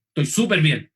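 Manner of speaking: low, emphatic insistence that belies the words; mock-sulky reply, dropping low at the end; clearly not fine. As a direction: act the upset spouse insisting all is well. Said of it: "uno sabe que está mal".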